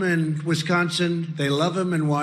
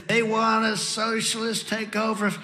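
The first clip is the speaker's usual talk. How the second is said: strained, higher mock shout held back in volume; mock scream; 3 semitones higher, 7 dB quieter than usual. Shown as a demonstration. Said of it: "normally I'd scream".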